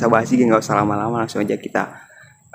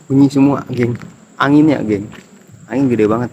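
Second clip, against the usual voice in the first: raised voice against the wind; shouting over wind; 4 dB louder than usual. Real, not acted. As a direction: call out over loud gusts. Loud wind noise at site.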